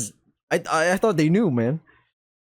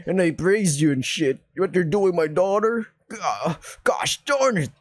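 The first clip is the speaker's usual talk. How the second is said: mock mad drunk dad; 3 semitones higher than usual. Player mocks the dad hearing of the boyfriend. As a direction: ham up a tipsy furious dad. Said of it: "mad drunkard mode".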